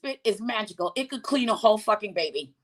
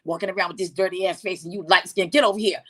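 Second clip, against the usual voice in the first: lower, gruff scolding caretaker; scolding grandmother; 5 semitones lower, faster than usual. Retold or imitated. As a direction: scold the dirty kid, sassy. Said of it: "She was like".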